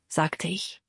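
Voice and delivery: ordinary delivery, nothing marked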